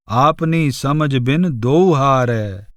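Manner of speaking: slow, measured devotional verse; unhurried scripture-style verse reading; verse recitation. Acted. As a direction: recite the couplet slowly, drawing out the words.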